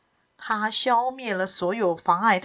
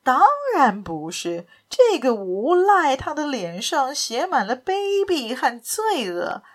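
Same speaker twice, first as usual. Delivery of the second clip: confident, rousing. Acted. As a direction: condemn the villain with firm conviction. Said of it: "以坚定的自信和高昂的神态说".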